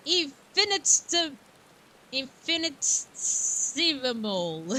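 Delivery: slow, syllable by syllable infinitesimal; careful pronunciation. Shown as a demonstration. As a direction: sound out infinitesimal slowly. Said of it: "I would use my phone to say the word properly".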